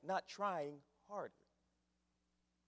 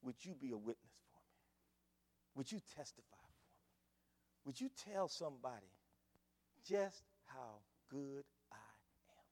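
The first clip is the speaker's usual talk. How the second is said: soft, low, fading to a whisper; God's gentle request; 4 semitones lower, 8 dB quieter than usual. Acted. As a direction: plead softly as God asking a favour. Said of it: "He says".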